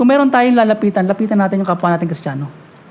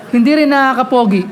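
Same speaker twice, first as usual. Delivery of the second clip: laughing. Real, not acted. Joking aside to the congregation.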